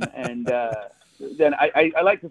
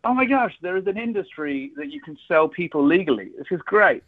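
excited discovery; 5 semitones higher than usual. Retold or imitated.

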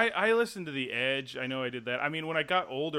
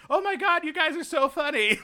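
much higher, sarcastic gush; imitating a sarcastic angry woman; mock sarcastic caller; 14 semitones higher, 6 dB louder than usual. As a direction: deliver it dripping with fake delight. Woman mocking pranksters sarcastically.

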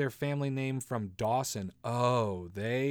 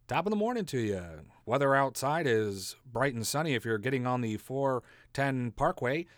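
morning radio host. Pretend. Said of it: "I don't wanna be like morning radio".

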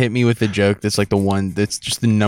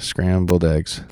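slowly drawn out, low; 4 semitones lower, much slower than usual. Shown as a demonstration. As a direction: stretch Scrambled eggs out slowly.

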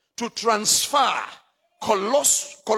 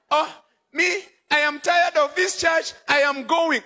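lightly voiced grumbling churchgoer, higher; mock complaining member; 6 semitones higher than usual. Preacher mimics a member tired of church, mock whine. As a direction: mimic a fed-up member walking out.

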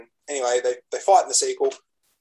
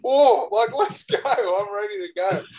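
hyped, higher-pitched rallying; pumped up; 5 semitones higher, slower than usual. Retold or imitated. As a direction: act fired up and raring to go. Acting out being pumped to fight.

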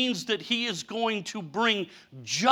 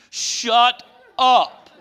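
louder, curt mock scolding; God's sharp rebuke, louder; stern rebuke; 2 semitones higher, 5 dB louder than usual. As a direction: scold like an impatient father. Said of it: "I'll repeat it".

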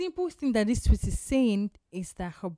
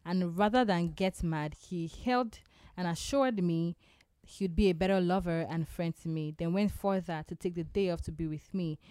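radio voice; 3 semitones lower, 4 dB quieter than usual. Acted. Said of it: "Listen to the radio voice".

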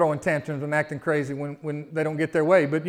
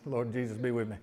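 mock desperate prayer; 7 semitones lower, 11 dB quieter than usual. Parent praying over them kids.

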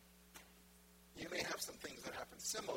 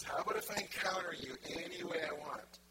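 louder, projected question; voicing God with more force; emphatic divine request; 5 dB louder than usual. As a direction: put the same offer boldly and clearly. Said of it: "He says".

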